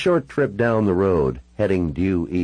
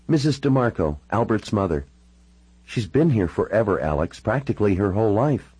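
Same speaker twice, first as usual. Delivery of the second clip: lightly voiced woman, slightly raised pitch; Natalie explaining; 3 semitones higher than usual. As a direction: explain in a lightly played female character voice.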